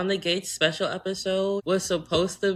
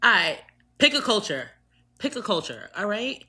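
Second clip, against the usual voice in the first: mock exasperated; 5 semitones higher, faster than usual. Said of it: "was just like".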